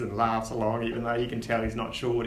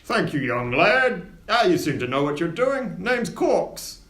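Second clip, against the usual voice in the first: low voice; 5 semitones higher, 5 dB louder, slower than usual. Acted. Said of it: "he talks to you in a low voice".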